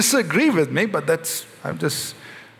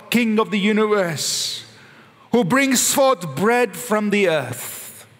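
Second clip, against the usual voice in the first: slow, reverent prayer, words drawn out; slow liturgical blessing; slow solemn blessing; slower than usual. Shown as a demonstration. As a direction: pray it slowly as Jesus might. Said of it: "He blessed".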